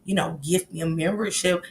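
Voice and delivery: low, soft mimicked request; imitating how he talks. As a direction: mimic him asking politely, quietly and low. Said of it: "That's how he talks".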